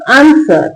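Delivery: आंसर said as "aan-sar", no W; silent W. Shown as a demonstration. Teacher showing how to read it, आंसर with silent W. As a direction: model आंसर with the W dropped. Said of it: "इसको कैसे पढ़ेंगे".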